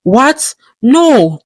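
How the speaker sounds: sharp high cry of alarm; startled yell. Acted. Goldie cries out as her attackers close in, alarmed yell. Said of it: "Goldie yelled".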